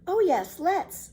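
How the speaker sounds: put-on high, delighted little girl; eager girl Annika. Annika agrees to breakfast, high delighted girl voice. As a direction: jump at the idea.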